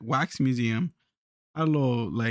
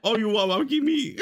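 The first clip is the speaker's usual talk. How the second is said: mock Asian accent; 4 semitones higher than usual. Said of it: "you do the accent".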